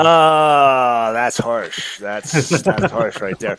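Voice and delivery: put-on slow, drawn-out Brooklyn accent; a New Yorker who's been insulted, Brooklyn accent. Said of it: "why the Brooklyn accent?".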